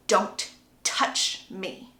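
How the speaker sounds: very slow, low, half-whispered warning; menacing warning. Retold or imitated. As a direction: warn him off slowly, word by word. Acted warning when grabbed.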